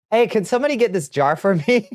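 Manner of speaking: high plaintive call for help. Real, not acted. Calling out for help with jar.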